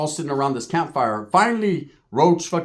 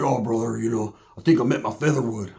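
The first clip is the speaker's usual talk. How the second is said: imitating smitten buddy; 5 semitones lower than usual. Roach hugged up with the tall chick, low confiding imitation. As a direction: confide it in a dropped voice.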